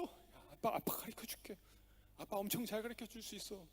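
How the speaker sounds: soft whisper of a father; dad whispers reassurance to his daughter; whispered comfort. Retold or imitated. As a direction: whisper it to calm a crying child.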